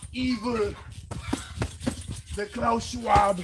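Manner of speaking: slow, loud, drawn-out mock villain; hammed-up evil villain voice; evil Klaus Schwab voice. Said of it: "Evil voice".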